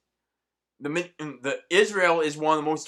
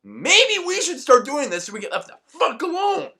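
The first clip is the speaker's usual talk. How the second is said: mock suggestion; slower than usual. Suggesting America talk like this, mock voice rising to a laugh. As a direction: pretend America, half laughing. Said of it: "be like".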